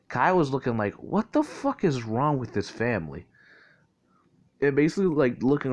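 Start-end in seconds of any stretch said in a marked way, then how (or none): 0.9-3.3 slow, drawn-out incredulous question; stretched-out mock bafflement; mock disbelief. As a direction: act out bewilderment at the relatives. Retold stunned reaction to family revelation.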